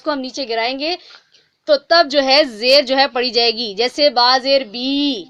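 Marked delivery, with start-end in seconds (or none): 3.7-5.2 با زیر بی slowly with the voice dropped on بی; lowered kasra. Shown as a demonstration. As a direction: drop the voice for بی, slowly. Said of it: "آواز کو نیچے گرا کر". (آواز نیچے گرا کر آہستہ)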